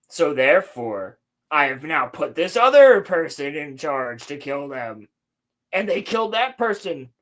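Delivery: a hint of a gloating schemer; mustache twirling villain. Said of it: "mustache-twirling villain who just goes".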